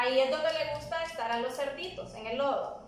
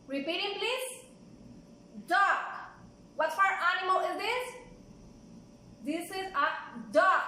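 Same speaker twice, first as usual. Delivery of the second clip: put-on bright, clear words for little kids; reading to a toddler. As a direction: show each word to small children. Teaching toddlers animal names.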